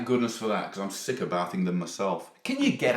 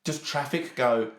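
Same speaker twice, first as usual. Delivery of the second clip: ordinary talk, nothing marked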